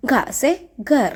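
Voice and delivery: ഘ said as a breathy, aspirated gh, slowly; aspirated gha. Shown as a demonstration. Teacher shows the class a slow, breathy ഘ. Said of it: "ഉറപ്പിച്ച് പറയുന്ന കേട്ടോ".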